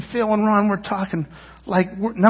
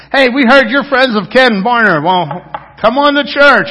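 higher and louder doorstep call; hammed-up eager invite to church; teen at the door pitching church to a stranger; 5 semitones higher, 7 dB louder than usual. Youth inviting people at doorsteps.

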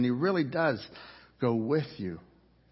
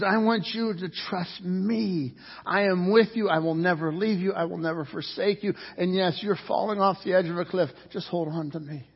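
voicing God; 7 semitones higher than usual. Pastor voicing God's promise to his listeners, tender. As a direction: speak as God, gently reassuring. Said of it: "He says".

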